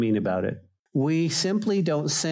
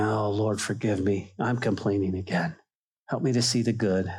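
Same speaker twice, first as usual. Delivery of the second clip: repentant prayer; 5 semitones lower than usual. Acted. Acting a humble repentant prayer.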